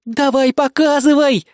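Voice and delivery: loud, eager demand; insistent. A narrator's reading. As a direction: push her to show it now. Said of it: "настаивала Бисмарк". (настойчиво и громко)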